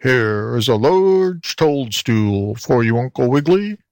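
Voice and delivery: slow, lightly grunting toad voice; a hint of a grunting toad. A narrator's reading. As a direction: grunt it like a kindly old toad. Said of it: "grunted Mister Croaker".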